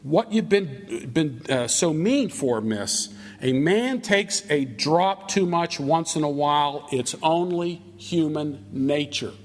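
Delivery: slow, mildly pleading excuse; lightly acted appeal for mercy; asking for mercy. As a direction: plead a little, dragging the words out. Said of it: "he asks for mercy. He says".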